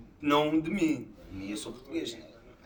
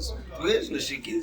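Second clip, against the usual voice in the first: ordinary talk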